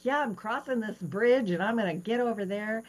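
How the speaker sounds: high, keen declaration; eager. Retold or imitated. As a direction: set on crossing the bridge. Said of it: "And so I'm all excited".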